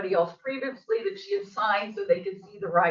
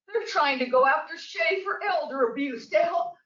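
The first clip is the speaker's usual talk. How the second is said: real angry outburst, higher; exasperated outburst; 5 semitones higher than usual. Real, not acted. Resident pleading for police help, real exasperated shout. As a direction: let the frustration burst out.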